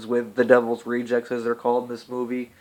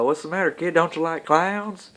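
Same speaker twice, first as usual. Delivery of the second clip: much higher, louder and slow, creepy clown sneer; a mock psycho clown drawling his questions higher and higher; menacing clown taunt; 10 semitones higher, 5 dB louder, slower than usual. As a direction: lean in and taunt like a killer clown. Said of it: "And he's like".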